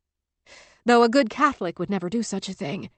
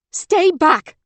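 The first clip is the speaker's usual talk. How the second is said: high, loud warning scream; urgent yell; 10 semitones higher, 7 dB louder than usual. A narrator's reading. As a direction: scream the warning up the ice wall. Caprice keeps screaming warnings.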